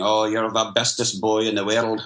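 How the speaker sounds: light imitation of a Scottish grandfather; Scottish accent. Grandfather to his grandson as the angel on his shoulder, lightly Scottish accent. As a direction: put on a touch of a Scottish accent. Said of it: "Scottish accent".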